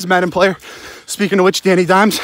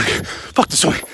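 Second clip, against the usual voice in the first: whispered curse, no voice; 2 semitones lower, 4 dB quieter, much slower than usual. Real, not acted. Dad near sleeping kids, whispering a curse. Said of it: "I'll be quiet. Kids are sleeping".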